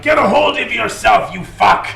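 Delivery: high, loud angry bark; yelling. Acted. Boss yelling at his stunned henchman. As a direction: snap him out of it. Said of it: "He yells out".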